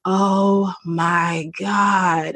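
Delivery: slow, drawn-out awed "oh my God"; starstruck gasp. Retold or imitated. Delivery guy recognizes her, astonished.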